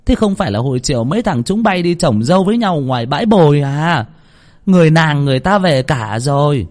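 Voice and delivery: high, urgent pleading mother; hurried, anxious. A narrator's reading. Mother pressing the girl about her missing son, anxious. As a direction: rush the questions, worried sick. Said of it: "Bà Vân gấp gáp".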